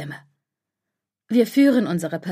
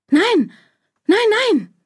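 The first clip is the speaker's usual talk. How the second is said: sharp, high, loud cries of fear; panicked no; 12 semitones higher, 5 dB louder, slower than usual. A narrator's reading. Lara, terrified of dropping Emilia, cries out in high, loud panic. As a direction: shout the denial in rising alarm.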